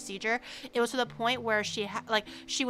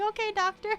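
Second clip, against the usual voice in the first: much higher, swooning okay doctor; flustered high reply; 10 semitones higher than usual. Retold or imitated. Male patient charmed by the doctor, high and swooning.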